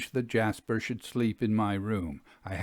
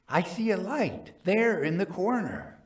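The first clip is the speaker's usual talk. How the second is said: higher, tense and yearning; painful eagerness; 9 semitones higher than usual. Acted. Jasper spotting the phantom's light: eager, pained, higher. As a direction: point it out as if it hurts to see. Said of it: "in a tone of painful eagerness".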